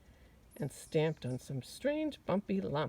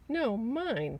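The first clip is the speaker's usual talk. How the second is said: snapping beetle; 6 semitones higher, 5 dB louder than usual. Acted. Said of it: "snapped the beetle".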